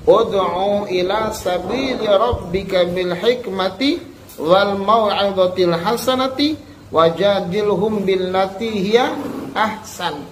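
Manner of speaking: slow, measured chanted Arabic recitation; Quran recitation. Acted. Teacher intoning the verse slowly to pupils.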